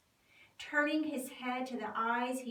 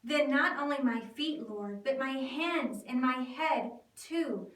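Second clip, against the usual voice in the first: exclaiming; 4 dB louder than usual. Acted.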